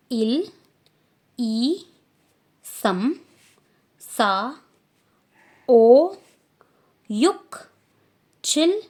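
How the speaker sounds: loud, exaggerated counting from इल up to चिल; careful Korean numbers. Shown as a demonstration. Teacher drills the numbers again for her class, very loud. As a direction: belt each Korean number out for copying. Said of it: "इस पर ध्यान देना".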